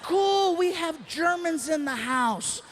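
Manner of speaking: high then slow announcing; hype emcee. Retold or imitated. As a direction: shout them out like an emcee. Emcee shout-out.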